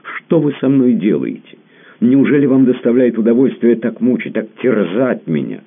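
high, loud anguished cry; a tormented man crying out; pained outcry. A narrator's reading. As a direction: cry it out as if in pain. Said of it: "болезненно выкрикнул".

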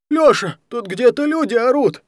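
fast, high, loud panicked gabble; rattled off. Acted. Даня rattles off a panicked report to Алекс, high and loud. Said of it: "протараторил Даня".

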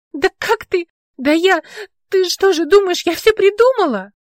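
high, loud indignant outburst; furious indignant yelling at the officer; outraged. A narrator's reading. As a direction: fire back, offended. Outraged at being doubted.

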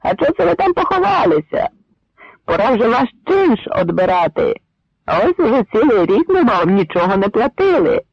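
taunting. Acted. Taunting the Poles.

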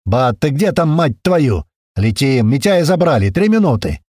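loud urgent exchange; loud urgent radio; loud radio calls. Acted. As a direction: shout over the fight. Radio chatter in firefight.

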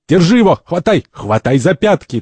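high, loud scrambling cries; rally the others to grab him; urgent calling out. Acted. First urges the others onto the cardinal, urgent shouting.

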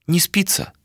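light high rising question. Acted. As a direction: ask it lightly, rising at the end. Malika asks, Ishtar echoes.

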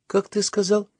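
high-pitched, incredulous questions; amazed. A narrator's reading. Boy hears talk of a discount, amazed. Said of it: "изумился Татушкин".

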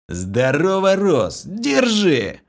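loud, high, happy hello; joyful greeting. A narrator's reading. Vlas greets his old friend with a loud, joyful hello. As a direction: greet him boisterously before the punch. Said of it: "Радостно поприветствовал меня Влас".

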